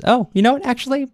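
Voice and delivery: high, breezy Pugachev voice; sudden change of heart. Retold or imitated. Pugachev sparing the old servant, breezy and high. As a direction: toss it off light and very high, a whim. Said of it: "at this old man and says".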